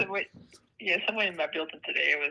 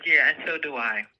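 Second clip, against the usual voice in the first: slow, louder comeback; retold firm comeback; 9 dB louder, slower than usual. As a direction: stand your ground in a retold argument, drawn out. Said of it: "I said".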